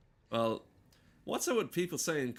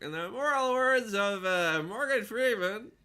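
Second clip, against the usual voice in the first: George Miller doing Morgan Freeman; 9 semitones higher, 6 dB louder than usual. Retold or imitated. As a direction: stretch it out high like a comic quoting a sage. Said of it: "I'll do my George Miller doing Morgan Freeman".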